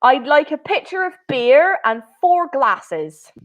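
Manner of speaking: lightly put-on Bristol accent; Bristolian accent. Teacher reading the customer for Padova, in a mild Bristolian accent. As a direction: order the beer the Bristolian way, understated. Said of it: "I will do my best Bristolian accent".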